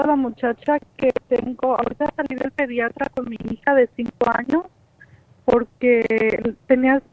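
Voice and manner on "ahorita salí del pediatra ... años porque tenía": breaking up phone line; glitching audio. Real, not acted. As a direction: voice cutting in and out. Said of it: "se está rom".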